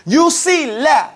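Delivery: la drawn out slowly; slow stress on la. Shown as a demonstration. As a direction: lean on the word la. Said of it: "It doesn't mean la".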